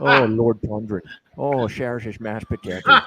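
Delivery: hammed-up Irish commentator; Irish accent. Joking around on the betting stream, Irish accent. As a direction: do a playful mock-Irish accent. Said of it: "Gotta do my Irish accent".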